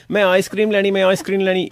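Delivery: a hint of kids pestering for a treat; pleading children. Children at home asking for ice cream, lightly mimicked pleading. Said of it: "the children are saying".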